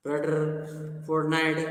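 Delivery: lightly imitated German accent on "Brother, fortnight"; a hint of German accent. Shown as a demonstration. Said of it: "These are all German accents".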